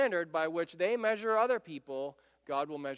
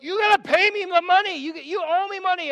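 much higher and louder, choking rage; furious demand; 12 semitones higher, 12 dB louder than usual. Retold or imitated. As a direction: shout at the debtor you're throttling. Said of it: "he grabs him by the throat".

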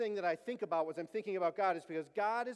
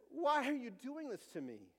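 higher-pitched complaint, a touch of pleading; mild plea; 5 semitones higher than usual. Retold or imitated. Himself to God when life hurts, mild plea. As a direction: retell your own plea to God, pitched up. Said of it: "That's been me".

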